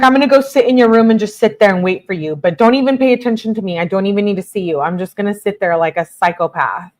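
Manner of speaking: mock her needy texts, fast and pushy; mocking whiny girlfriend. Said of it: "She's just used to manipulating him".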